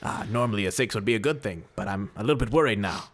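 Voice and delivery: 1940s detective. Acted. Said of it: "I'm here in character now".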